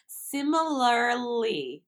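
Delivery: similarly drawn out slowly, falling; careful slow attempt. Shown as a demonstration. Trying again to fix the extra L. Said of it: "I just added another L".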